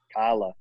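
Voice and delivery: "Carla" with the first R dropped. Retold or imitated. Grandma saying mom's name, "Carla" without its R. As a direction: say "Carla" as "Cah-la", Boston style. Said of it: "that's how she says her name".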